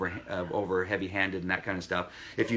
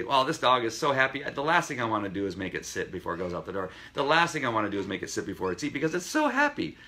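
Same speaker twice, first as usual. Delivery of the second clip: lightly voiced indulgent owner; mildly mock the pushover owner; a hint of an owner excusing the dog; soft-hearted owner; 3 semitones higher than usual. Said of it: "don't now also say".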